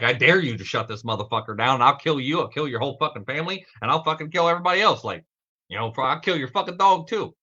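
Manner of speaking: imitating an online troll's threats; retold threat. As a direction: read the hate messages back as a half-hearted threat. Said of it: "life-threatening fucking messages".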